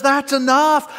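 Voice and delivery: loud, high final rebuke; firm rebuke. Retold or imitated. Jesus cutting off disciples who misread him, firm loud rebuke. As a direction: end the argument for good. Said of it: "And Jesus says".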